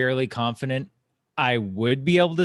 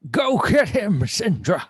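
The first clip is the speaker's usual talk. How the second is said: excited cheer; 9 semitones higher, 6 dB louder, slower than usual. Acted. Cheering on ally mid-spell.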